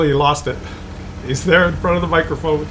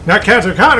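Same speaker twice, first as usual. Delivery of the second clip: mock angry fishermen; 6 semitones higher than usual. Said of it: "They were like".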